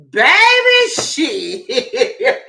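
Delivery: high, loud laughing outburst; laughing at the memory of the Obama years; bursting laugh. Real, not acted. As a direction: laugh it out helplessly. Laughing at her own memory.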